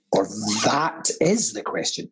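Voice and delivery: low line leaning hard on "is"; stress on IS. Shown as a demonstration. Actor offering an alternative Hamlet reading, stress on "is". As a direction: punch the word "is". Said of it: "Open to interpretation there".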